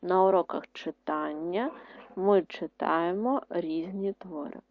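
repeated slowly and steadily. Shown as a demonstration. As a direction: say it again for writing. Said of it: "Ще раз". (повторний диктант)

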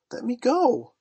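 high, loud command; ordering. A narrator's reading. Wendy, gripped by Peter, orders him to release her. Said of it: "she ordered him".

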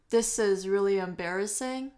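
"embarrassing" dips, then rises at the end; fall-rise tune. Shown as a demonstration. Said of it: "它用的是先降后升这样子".

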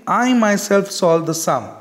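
"I myself" lifted and firm; emphasize "I myself", then let the sentence fall; teacher's example weighting "I myself"; stress on myself. Shown as a demonstration. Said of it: "we are giving a proper stress".

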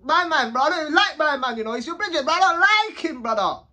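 heated retold rant; retold complaint. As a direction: tell D straight out you dislike him. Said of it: "I'm saying".

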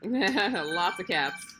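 slow, laughing through the words. Real, not acted. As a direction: chuckle it out slowly. Laughing at the cats.

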